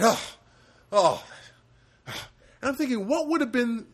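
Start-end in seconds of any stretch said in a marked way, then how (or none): 0.0-1.2 loud, higher mock sighing oh; exasperated sigh. Widow unhappy with the therapist's answer, sighing loudly. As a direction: heave a disappointed huff.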